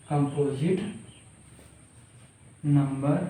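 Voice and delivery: very slow, halting word-by-word dictation. Real, not acted. Teacher writing the condition for the class, slow dictation. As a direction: read it out in drawn-out pieces, pausing as you write.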